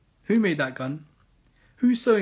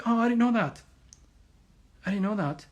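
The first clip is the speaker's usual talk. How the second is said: sarcastic; 4 semitones higher than usual. Pretend. Sarcastic feigned ignorance, repeated.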